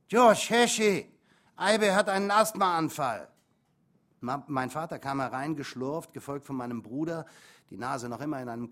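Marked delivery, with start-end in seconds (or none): 0.1-3.3 much louder and higher, stretched alarm call. Acted. Mother summoning father and brother for her son, loud alarmed call. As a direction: call the men from across the flat.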